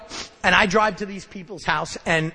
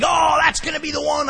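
loud, higher mock enthusiasm; sarcastic; 9 semitones higher, 5 dB louder than usual. Defensive newcomer mocking his own amends, loud and sarcastic. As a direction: oversell it with a sneer. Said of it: "now I'm getting sarcastic".

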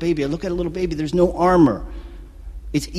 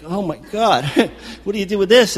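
laughing disbelief; 6 semitones higher than usual. Retold or imitated. Seeing the catatonic patient.

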